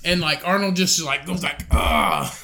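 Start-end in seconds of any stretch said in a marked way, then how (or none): 1.7-2.3 unpitched "ah" of taking a hit; mild imitated grunt. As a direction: imitate being kicked in the back. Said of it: "like that".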